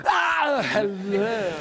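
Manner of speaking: high cry dropping into hello; put-on tiger voice, starting very high; tiger's greeting. Storyteller replays the tiger's greeting, high then falling. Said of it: "And he went".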